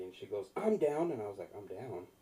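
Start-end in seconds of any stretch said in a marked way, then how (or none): 0.6-1.1 higher, louder mock old-lady announcement; eager elderly lady. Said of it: "it was an elderly lady". 1.6-2.1 puzzled echo. Retold or imitated. He puzzles over her words.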